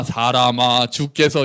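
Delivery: low, measured recital; lifeless scripture recitation. Shown as a demonstration. Preacher showing how the verse is usually read, measured. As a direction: recite it solemnly without any anger. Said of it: "이러니까 우리가 실감이 안 나서".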